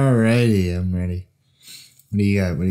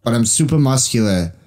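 Mark Wahlberg impression. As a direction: bark it like a hotheaded little bruiser. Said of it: "Mark Wahlberg".

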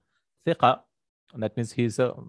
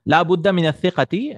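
higher and louder, clearly declaimed; loud emphatic reading; 7 semitones higher, 6 dB louder than usual. Shown as a demonstration. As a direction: proclaim the phrase for the class. Rereads the phrase after clearing throat.

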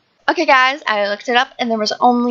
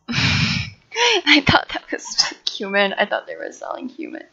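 whisper; 5 dB quieter than usual. Real, not acted. Whispered aside laughing.

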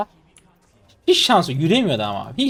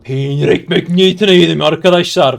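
triumphant shout; 6 dB louder than usual. Real, not acted. Streamer brags of devouring Fiora, triumphant shout. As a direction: crow about the kill at full voice. Bragging loudly after a kill.

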